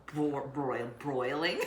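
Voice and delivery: stumbling over the word through laughter; laughing. Real, not acted. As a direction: break into giggles mid-word. Laughing at her own ADHD wrath.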